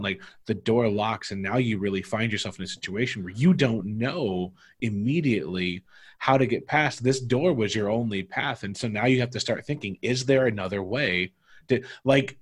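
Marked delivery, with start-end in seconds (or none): 0.5-11.3 game master narrating the setback; narrator voice. Shown as a demonstration. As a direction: spin it out as a story for the players. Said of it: "narrator voice, like, knowing how to take a half step out".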